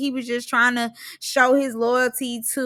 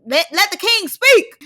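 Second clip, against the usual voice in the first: imitated grand demand; 7 semitones higher, 4 dB louder than usual. Imitating Mal demanding the floor.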